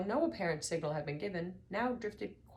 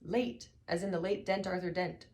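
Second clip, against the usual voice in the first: stern; 4 semitones higher, 3 dB louder than usual. Acted. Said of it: "said the old man sternly".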